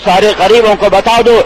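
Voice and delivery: chanted call and response, Quran slowed each time; preaching refrain. Acted. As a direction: preach it with rising fervour. Rising rhythmic sermon refrain. (جوش بھرا واعظانہ انداز)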